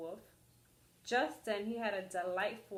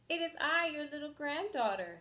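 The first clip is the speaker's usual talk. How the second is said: put-on little girl voice; 6 semitones higher than usual. Girl at Granny's door.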